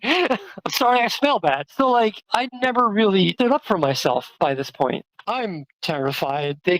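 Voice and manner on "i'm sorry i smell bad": laughing apology. Real, not acted. Bitter laugh at old shame.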